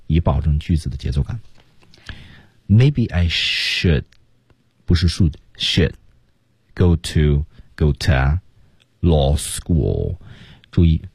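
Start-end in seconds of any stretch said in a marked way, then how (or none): 2.7-10.2 very slow, law school weighted; key words slow. Shown as a demonstration. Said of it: "正确的读法是".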